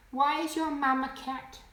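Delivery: high-pitched imitation of puzzled little kids; freaked-out kids. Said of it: "they freak out and they go".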